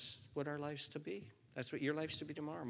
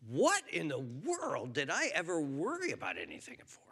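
whispered thought; 3 semitones higher than usual. Pretend. Imagined thought before God.

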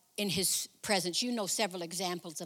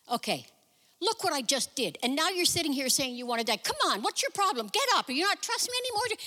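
exasperated scolding; 5 semitones higher than usual. Pretend. Imagined God scolding Elijah, exasperated and rising. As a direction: shake him out of self-pity.

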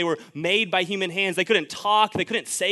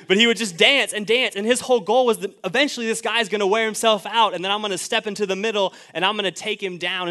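louder and higher, fired up; building excitement; 4 semitones higher, 5 dB louder than usual. Real, not acted. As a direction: pump it up like a fight story. Hyped boxing retelling.

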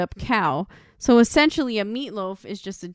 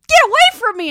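loud, high imitated yell; alarmed shout; 12 semitones higher, 10 dB louder, faster than usual. Woman running away from him to the bathroom, mock alarmed shout. Retold woman fleeing his advances.

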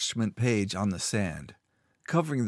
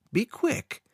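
Be quick much higher with a sweet rise; false friendly smile in the voice; smiling. A narrator's reading. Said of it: "He smiled at the caretaker and said".

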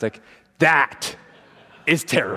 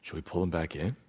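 stunned sailors; 9 semitones lower, 14 dB quieter than usual. Retold or imitated. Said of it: "they're like".

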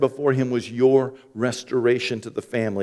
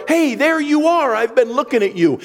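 welcoming; 14 semitones higher, 7 dB louder than usual. Retold or imitated. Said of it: "walk into a room one of two ways".

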